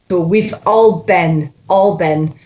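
"all been" joined as one word; words run together. Shown as a demonstration. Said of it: "let's make that one word".

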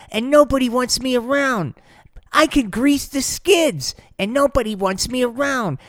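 high, whining complaint; whiny self-pity. Acted. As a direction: pitch it up into a sulky whine. Slider self-pity rant.

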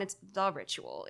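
"the ritual" में "the" पर ज़ोर; stress on the. Shown as a demonstration. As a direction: lean on "the" in "the ritual". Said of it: "It's not just ritual or a ritual".

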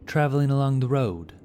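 high, loud sudden call; sudden cry. A narrator's reading. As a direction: shout it out as you spot him. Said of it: "cried Vantamir suddenly".

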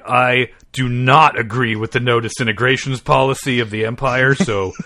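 slow, loud bounty-hunter threat; Boba Fett. Acted. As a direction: deliver a slow, forceful menacing warning. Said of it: "doing the old Boba Fett voice".

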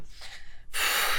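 long unvoiced-breath sigh of panic; flustered sigh. Real, not acted. Podcaster flustered by own innuendo, panicky sigh. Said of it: "sorry, I'm just panicking now".

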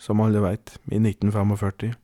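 measured, deliberate storytelling; story narration. A narrator's reading. Podcast host introduces the general to listeners, measured storytelling. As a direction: tell it as a solemn tall tale. Reads out a comic tall tale.

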